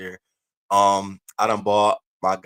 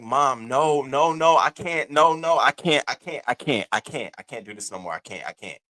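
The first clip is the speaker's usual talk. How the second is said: distraught pleading; 5 semitones higher than usual. Retold or imitated. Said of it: "I'm like".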